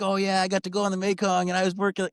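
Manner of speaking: high, breezy mock-casual boast; mock brag. Imitating his own story posts, high breezy mock brag. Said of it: "be like".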